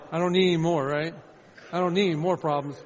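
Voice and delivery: loud retold protest; exasperated protest. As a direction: push back loudly at the caller. Acted answer to phone call.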